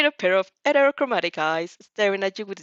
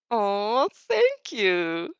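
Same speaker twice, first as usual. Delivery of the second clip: coo; 2 semitones higher, much slower than usual. A narrator's reading. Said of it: "he coos".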